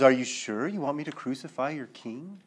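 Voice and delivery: lightly acted smart-aleck jab. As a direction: play it as a wry taunt. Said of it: "this smart aleck remark".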